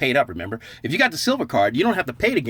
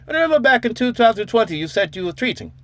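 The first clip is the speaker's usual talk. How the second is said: gloating reminder; 10 semitones higher than usual. Retold or imitated. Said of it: "says Silver Game of Thrones".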